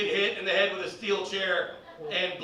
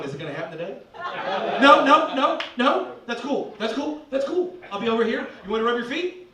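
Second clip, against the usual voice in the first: eager little dog; 3 semitones higher than usual. Retold or imitated. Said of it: "Like a little fucking Pekingese going".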